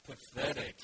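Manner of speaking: drawn-out, breathy, gloomy Pathetic; slow Eeyore. Shown as a demonstration. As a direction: let Pathetic sag out slowly with no energy. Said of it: "you have to read it slowly".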